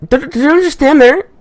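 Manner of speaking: high falsetto plea for help; pleading girl falsetto. Acted. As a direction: beg him as the embarrassed girl.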